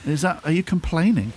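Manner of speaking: high, needling lovey actor; camp passive-aggressive voice. Acted. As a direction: wind him up like a petty master. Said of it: "play the master role when I'm winding you up".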